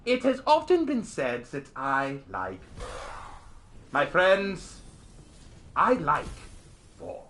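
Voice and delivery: measured, lightly hammed-up German orator; mock oratory with deliberate pauses; the Major. Streamer recites a drama-class war speech, lightly hammed-up German orator. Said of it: "I did the Major's I Love War speech".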